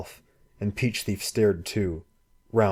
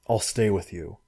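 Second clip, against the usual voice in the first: hoarse. Acted. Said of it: "he said hoarsely".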